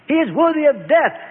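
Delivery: high, strained cry of condemnation; Caiaphas screaming. A narrator's reading. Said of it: "screamed Caiaphas".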